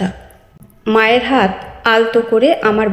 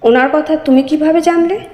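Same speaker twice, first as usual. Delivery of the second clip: higher, astonished asking; surprised question; 5 semitones higher than usual. Acted. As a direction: ask it amazed, pitch lifted. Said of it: "আমি অবাক হয়ে বললাম".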